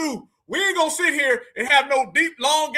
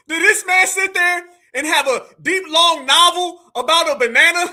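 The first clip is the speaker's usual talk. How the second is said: laughing disbelief; 5 dB louder than usual. Real, not acted.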